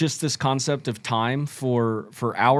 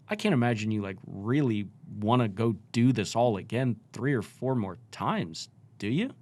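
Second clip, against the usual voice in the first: curious tone; 3 semitones lower, 3 dB quieter than usual. Shown as a demonstration. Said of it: "So the tone is curiosity".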